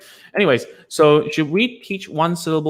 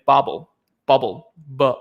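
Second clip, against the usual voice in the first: Singapore stress; slower than usual. Shown as a demonstration. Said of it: "people put the stress at the back".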